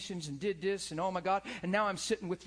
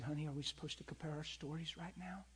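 tender; 4 semitones lower, 12 dB quieter than usual. Retold or imitated. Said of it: "I said".

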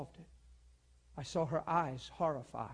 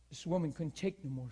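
ordinary talk, nothing marked

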